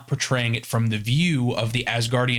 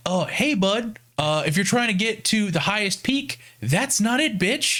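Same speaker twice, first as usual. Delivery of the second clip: higher, cheeky Mimir voice; mock Mimir; 8 semitones higher than usual. Trapped Mimir mocking the climbers, higher cheeky voice. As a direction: play him as a smug trapped head. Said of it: "is like".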